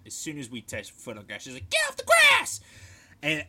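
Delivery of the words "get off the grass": high, loud imitated order; retold yell. Officer catching trainees on the grass, high mock yell. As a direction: yell the order across a field. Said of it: "she just yells out".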